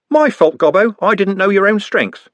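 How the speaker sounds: a pained city lad; Trev in pain. Acted. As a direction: wince through it. Trev voiced in read story.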